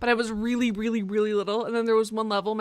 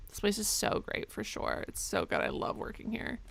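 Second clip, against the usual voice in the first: whispering; 9 dB quieter than usual. Pretend. Forced cheer, whispered aside.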